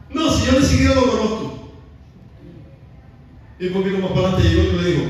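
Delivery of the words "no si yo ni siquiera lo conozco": indignant denial. Acted. Pedro niega conocer a Jesús.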